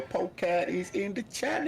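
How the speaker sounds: booming welcome shout; calling out. Real, not acted. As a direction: herald a friend joining the channel. Announcing a new arrival.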